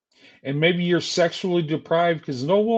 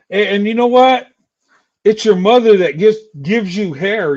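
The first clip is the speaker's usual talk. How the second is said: louder, pushing the point hard; loud heated jab; 6 dB louder than usual. Real, not acted. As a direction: drive the point home loudly. Heated rant, building up.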